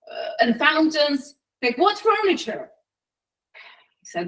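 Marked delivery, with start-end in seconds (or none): 0.1-2.7 high, scornful dismissal; acted indignant scorn; angry wife. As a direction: scoff at the offer in a raised pitch. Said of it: "she looks angry".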